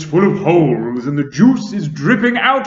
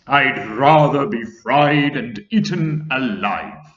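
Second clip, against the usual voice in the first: grasshopper wailing; 3 semitones higher, 12 dB louder, slower than usual. A narrator's reading. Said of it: "wailed the old green grasshopper".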